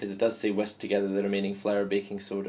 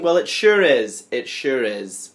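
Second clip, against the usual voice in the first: slow folksy reply; 6 dB louder, slower than usual. Acted. Answering as himself, drawn out.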